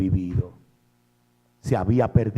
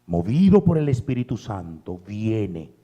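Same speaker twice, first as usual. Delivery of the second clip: tender appeal; 5 semitones lower than usual. Acted. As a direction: draw them in gently. Soft appeal to listeners.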